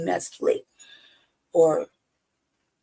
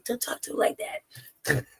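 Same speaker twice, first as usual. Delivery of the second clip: higher, drawn-out protective scolding; mock protective; 5 semitones higher, 3 dB quieter than usual. Partner telling someone off for him, mock protective scolding. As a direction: step in slowly and shield him, half-joking. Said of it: "that's how I feel. Like, I'm like".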